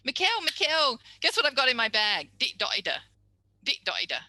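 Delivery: put-on high, loud excited child rushing in, "dotida". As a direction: burst in full of news. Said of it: "came rushing in and get".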